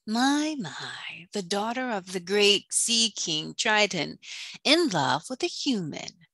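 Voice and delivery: a lightly voiced scheming sea witch, purring over her plan. Villain gloating over the king's lovesick daughter, lightly voiced sea witch. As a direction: savor the revenge plot, only slightly changed from the narrator's voice.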